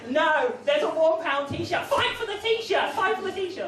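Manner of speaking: hammed-up sale-day war cry; mock frenzied shout. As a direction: bellow it like a bargain-hunting mob, slowly. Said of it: "It's like, it's like".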